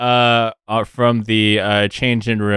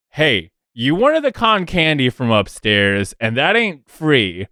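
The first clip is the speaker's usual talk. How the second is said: bargaining gnome; 5 semitones higher than usual. Acted. GM voices gnome Lars bargaining.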